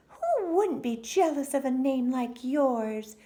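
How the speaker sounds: very high, loud scoffing mum; dismissive mother. A narrator's reading. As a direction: wave it away as a brisk mother. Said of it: "said her mother".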